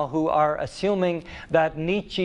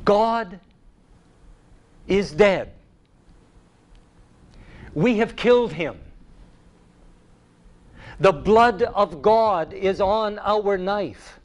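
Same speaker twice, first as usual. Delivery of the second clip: madman's answer; 3 semitones higher than usual. A narrator's reading. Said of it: "And then he answered".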